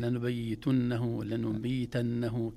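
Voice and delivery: لنبيتنه said slowly, every letter separate; careful articulation. Shown as a demonstration. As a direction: spell out لنبيتنه slowly and clearly. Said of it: "كذا". (نطق متأن لكلمة لنبيتنه)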